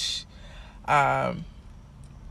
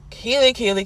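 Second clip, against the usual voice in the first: exasperated call; 6 semitones higher, 3 dB louder than usual. Retold or imitated. Calling Keely out, exasperated.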